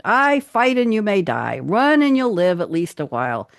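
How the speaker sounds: rally the troops like a war hero; dramatic movie speech. Acted. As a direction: epic speech building to a peak, then dropping for the last line. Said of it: "I can't do this in an accent. I'll just read it".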